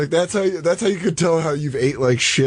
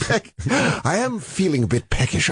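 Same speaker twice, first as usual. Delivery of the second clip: renaissance fair olde speech; 5 semitones higher, slower than usual. Pretend. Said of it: "I speak in old English".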